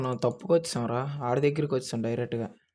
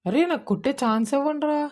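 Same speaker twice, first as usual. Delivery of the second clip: much higher, loud exasperated plea; pleading shout; 13 semitones higher, 6 dB louder than usual. Real, not acted. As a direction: beg them for a chance, loudly. Gamer pleading loudly with opponents. (వేడుకుంటూ అరుపు)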